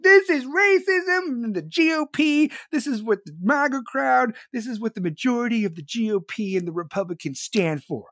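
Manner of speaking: put-on lampoon the old president droning on; mocking Biden. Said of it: "fucking Joe Biden out there like".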